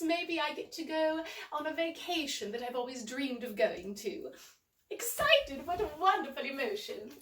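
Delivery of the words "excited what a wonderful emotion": bright excited. Acted. Repeating the word keenly.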